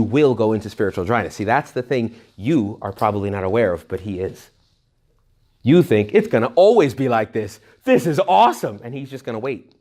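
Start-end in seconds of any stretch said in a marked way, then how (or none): 6.1-8.8 hammed-up delight, rising higher at the end; mock elation. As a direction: act blissfully overconfident, lifting the pitch. Voicing the complacent believer's elation.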